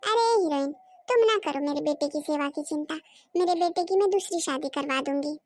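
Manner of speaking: mother-in-law shouting down her son's wife; loud and bossy, putting her in her place; shouting from across the room; loud scolding. Acted.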